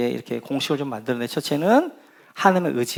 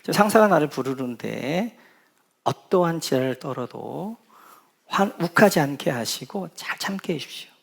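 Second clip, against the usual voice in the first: sample prayer. Pretend. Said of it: "잠깐 기도하는 거".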